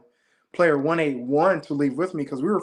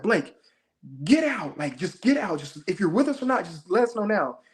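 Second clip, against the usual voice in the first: higher-pitched mild mock yell; retold yell; 4 semitones higher than usual. Player ordering Blake out of the group, mild retold yell. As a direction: order them out, urgent but not shouting. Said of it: "And I yell at Blake".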